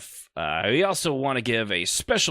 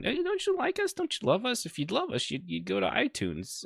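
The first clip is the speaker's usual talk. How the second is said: much higher, softer, whiny guilt-trip; mock pleading; 12 semitones higher, 5 dB quieter than usual. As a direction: beg the listeners with fake hurt feelings. Begging listeners for reviews.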